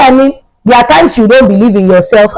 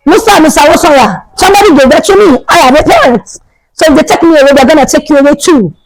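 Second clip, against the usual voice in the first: high, indignant mock protest; high-pitched emphatic warning; retold defiance; 6 semitones higher than usual. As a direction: argue back at the principal, acted out. Retold standing ground against principal.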